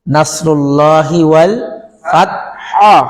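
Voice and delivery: ফাতহ ending on a throat-pressed হ. Shown as a demonstration. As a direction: slowly, land ফাতহ on a pressed হ. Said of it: "চাপ দিয়ে".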